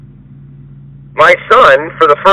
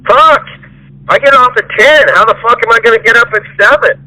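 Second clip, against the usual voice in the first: hammed-up griping impression, pitched up; whiny mock complaint; 8 semitones higher than usual. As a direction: mimic a lazy worker griping about hours. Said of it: "opposing me every fucking day".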